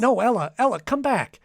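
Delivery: rising, urgent plea after her; pleading call. Acted. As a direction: reach out with your voice as she goes.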